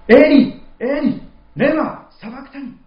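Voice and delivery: high, loud, slow cry to the heavens; anguished loud cry. Retold or imitated. Jesus crying out on the cross, loud and anguished. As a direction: cry out from despair, stretching each word. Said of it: "イエス様は大声で叫ばれます".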